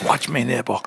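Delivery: breathy close-mic whisper; ASMR whisper. Pretend. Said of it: "doing my A S M R voice".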